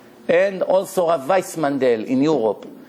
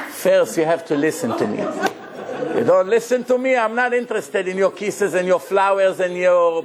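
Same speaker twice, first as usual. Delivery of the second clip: teasing wife; 3 semitones higher than usual. Retold or imitated. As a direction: tease him sweetly, then insist. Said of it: "That's what a wife should say".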